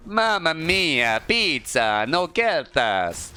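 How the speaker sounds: slow, hammed-up Italian accent; jolly Italian pizza chef. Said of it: "Italian or Russian here".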